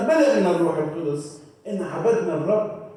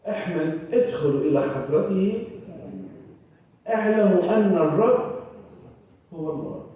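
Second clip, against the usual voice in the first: congregational recitation; 4 semitones lower than usual. Shown as a demonstration. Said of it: "حافظين قولوا معي".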